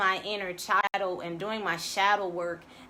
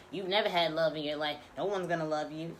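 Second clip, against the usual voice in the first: lower, fast, lightly voiced nagging inner voice; voice of the ego; 6 semitones lower, faster than usual. Voicing the ego's discouraging chatter for listeners, lower and fast. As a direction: rattle off the ego's put-downs, a touch darker. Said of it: "That's those impressions".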